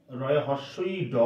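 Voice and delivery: measured letter-by-letter "রয়ে হস্যই ড"; spelling out the sound. Shown as a demonstration. Teacher spelling the pronunciation for students, slow and deliberate "রয়ে হস্যই ড". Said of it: "এটার উচ্চারণটা হচ্ছে".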